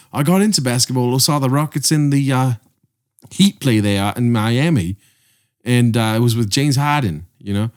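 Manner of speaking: light, shaky attempt at an Australian accent. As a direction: imitate an Australian telling a story. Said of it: "I don't know how to do an Australian accent".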